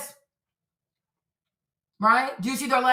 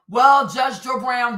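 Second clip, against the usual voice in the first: mock call out; 5 dB louder, much slower than usual. Real, not acted. Calling out the judge sarcastically.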